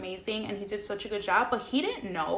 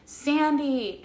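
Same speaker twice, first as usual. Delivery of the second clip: high, stretched-out name falling away; mock tearful calling out; scared, almost crying; 6 semitones higher, 4 dB louder than usual. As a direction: imitate an emotional, pleading call. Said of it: "the way he said Sandy was, like, so, like, emotional".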